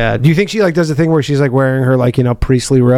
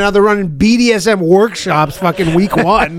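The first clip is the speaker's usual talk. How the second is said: high, quick mock clergyman; high church official voice; 6 semitones higher than usual. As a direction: play a flustered church leader. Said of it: "and they go".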